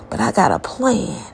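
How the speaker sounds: whisper. Retold or imitated. Spirit hiding, whispering a secret.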